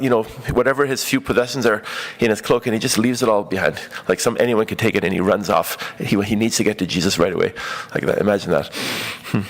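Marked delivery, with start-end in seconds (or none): none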